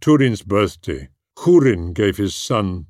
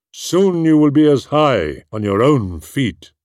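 raised, louder, delighted; fond praise; 5 semitones higher, 4 dB louder than usual. Acted. Húrin lifting Túrin onto the table, fondly proud. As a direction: beam with pride at your son.

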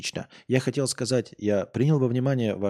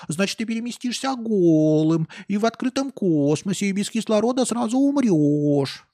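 know-it-all nerd voice; 4 semitones higher than usual. Retold or imitated. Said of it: "и я начну душнить".

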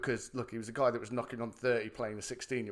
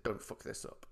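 warning; 3 semitones lower, 10 dB quieter than usual. Retold or imitated. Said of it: "messaged him on Twitter and said".

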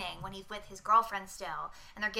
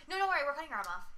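mock casual; 4 semitones higher, much faster than usual. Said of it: "they literally are so common".

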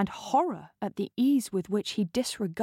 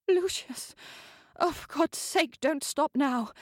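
much higher, demanding passionate cry; frustrated lover demanding more; impatient countess; 8 semitones higher than usual. Acted. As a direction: cry out at him to keep going.

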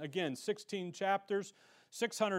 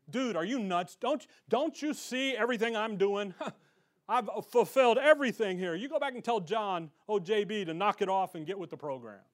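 incredulous slangy paraphrase, lightly acted; casual Rick talk. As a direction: retell it like an exasperated buddy, mildly. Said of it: "Put it in Rick talk".

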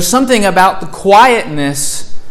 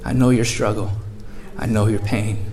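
gentle comfort; 4 semitones lower than usual. Retold or imitated. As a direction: fade to a hush as you reassure. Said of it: "He comes in gently".

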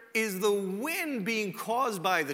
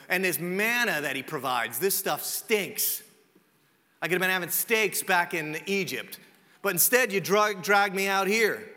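complaining. Acted. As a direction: play a fed-up complainer. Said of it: "they start specifically complaining to Moses".

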